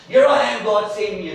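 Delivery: high, loud eager offer; mock eager Isaiah; eager volunteering. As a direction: put your hand up keenly. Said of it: "your own attitude".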